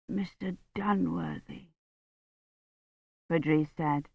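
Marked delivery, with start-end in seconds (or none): 0.1-1.7 much softer, slow faint voice; barely manage his name; faint dying voice. A narrator's reading. Feverish Badri answering Dunworthy, a faint dying voice.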